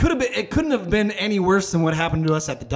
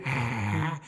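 low, softer drawn-out "ah"; imitated groan; 6 semitones lower, 6 dB quieter than usual. Crackhead answering a startled walker, low groan. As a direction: repeat the stranger's low groan.

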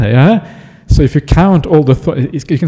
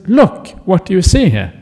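mildly exasperated, higher-pitched demand; a bit exasperated; 5 semitones higher than usual. Acted. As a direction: press your point with slight impatience. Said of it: "he gets a bit exasperated".

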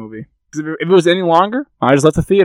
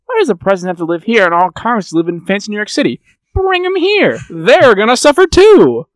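mock president; 6 semitones higher than usual. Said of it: "was like".

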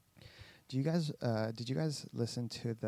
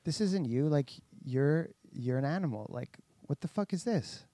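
raised, louder mock rebuke from a blunt ex-trainer; imitated trainer scolding; 4 semitones higher, 3 dB louder than usual. Ex-trainer calling out Tyson for getting out of shape, in a raised mock rebuke. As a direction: bark it at him like a fed-up old trainer. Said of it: "his ex-trainer was like".

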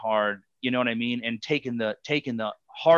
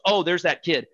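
French lady voice; 5 semitones higher, 3 dB louder than usual. Retold or imitated. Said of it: "She's French".

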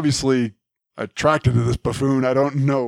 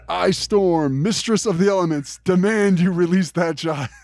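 higher, slow hammed-up heroic announcement; grand Storm proclamation; 6 semitones higher than usual. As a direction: ham it up, declaring like a goddess. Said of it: "Say that again".

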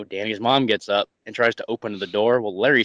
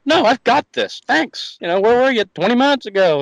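sarcastic; 10 semitones higher, 4 dB louder than usual. Retold or imitated. Sarcastic reply to late offer.

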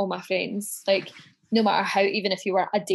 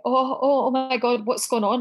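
retold freak-out, raised and louder; imitating a panicking husband, higher and louder; mock panic; 4 semitones higher, 3 dB louder than usual. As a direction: play the husband losing it. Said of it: "He was freaking out".

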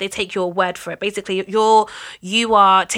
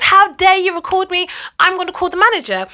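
high, loud mock outrage; imitated raised voice; 9 semitones higher, 4 dB louder than usual. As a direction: act out an indignant complainer kicking off. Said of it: "starts raising her voice".

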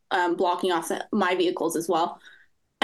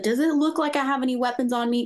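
higher-pitched indignant retort, not shouted; retold anger; 4 semitones higher than usual. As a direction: re-enact being mad, voice pitched up. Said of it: "I got mad".

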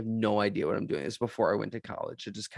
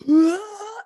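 retold yelp; 9 dB louder than usual. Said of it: "my uncle in the last row goes".

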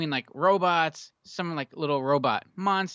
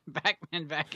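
cheek-sucking voice; 4 dB quieter than usual. Retold or imitated. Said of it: "you were sucking your cheek".

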